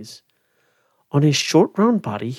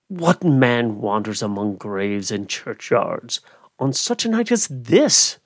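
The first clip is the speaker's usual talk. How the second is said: crying out; 3 semitones lower than usual. Acted. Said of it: "cried the goblin".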